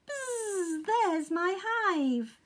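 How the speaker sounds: high, slow, buzzing bee voice; Honeybee. A narrator's reading. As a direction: buzz with delight at getting home. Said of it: "buzzed Honeybee".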